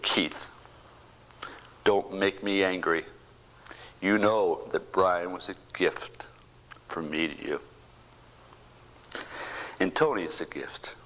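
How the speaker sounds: slow, hushed, grave whisper; voice of God. Retold or imitated. God gently rebuking a grieving father, slow hushed whisper. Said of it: "And I heard a voice".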